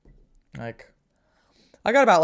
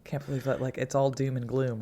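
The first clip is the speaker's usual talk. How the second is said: mock dread; 6 dB quieter than usual. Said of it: "listeners are gonna be like".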